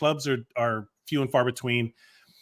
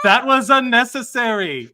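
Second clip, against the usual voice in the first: slow, louder line broken by laughter; laughing through it; 7 semitones higher, 6 dB louder than usual. Real, not acted. Reacting to the clip, laughing hard, slow and louder. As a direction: choke it out laughing. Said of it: "laughing reaction to clip".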